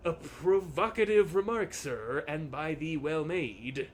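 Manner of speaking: lightly voiced stately gentleman; mildly courtly reply; archaic formal speech. Landlord answering the player, a hint of olde English. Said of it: "When did you start talking like this?".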